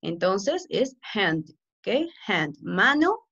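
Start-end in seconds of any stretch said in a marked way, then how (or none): 1.1-1.5 "hand" with a raspy Spanish J for the H. Shown as a demonstration. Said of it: "la H tiene pronunciación de J". 2.3-2.6 "hand" with a raspy Spanish J for the H. Shown as a demonstration. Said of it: "la H tiene pronunciación de J".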